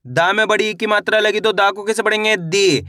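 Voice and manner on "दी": दी with a stretched, falling ee; long drawn-out ee. Shown as a demonstration. Teacher reading da with big ee matra, drawn-out दी. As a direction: hold the vowel of दी long. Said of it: "खींच के पढ़ना है".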